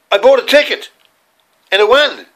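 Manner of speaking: put-on high, eager little-boy answer; boy telling his mum the ticket won, proud and high; proud child. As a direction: sound pleased with yourself.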